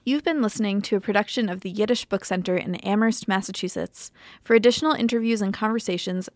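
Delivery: smooth radio sign-off read; podcast outro. Acted. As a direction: read it like a radio host closing the show. Reads the show outro.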